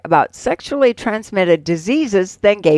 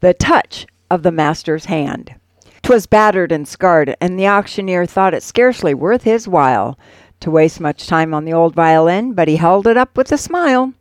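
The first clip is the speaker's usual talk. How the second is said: measured, dramatic poem reading; poem recitation; 2 semitones lower than usual. Acted. Host reciting a classic poem to radio listeners, dramatic recitation. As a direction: recite it like an old storytelling ballad.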